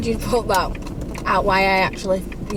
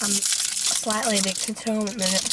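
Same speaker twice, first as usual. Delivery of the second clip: talking round a boiled sweet; words slurred by a sweet in the mouth; mouth full. Real, not acted. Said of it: "we'll be talking like this all the way through".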